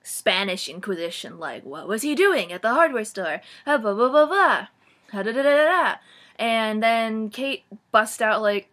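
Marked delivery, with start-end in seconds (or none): 1.6-6.0 a little higher and louder, rattling off questions; hammed-up nosy friend grilling; mock interrogation. Kate grills Anna like the Spanish Inquisition, mock nagging. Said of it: "giving her the Spanish Inquisition".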